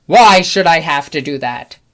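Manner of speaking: loud indignant whine; indignant customer. Retold or imitated. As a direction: push back like you're being wronged. Customer argues at checkout.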